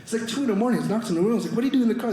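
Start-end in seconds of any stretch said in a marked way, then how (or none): 1.6-2.1 slightly high, puzzled question; concerned question. Retold or imitated. Generous friend to man found sleeping in car, concerned question. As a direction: ask it as a puzzled, kindly friend.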